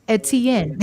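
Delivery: put-on mother saying her son's name in Jamaican accent. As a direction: Etienne with a Jamaican lilt. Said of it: "she goes into that Jamaican accent".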